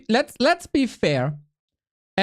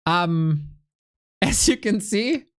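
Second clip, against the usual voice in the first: usual speaking voice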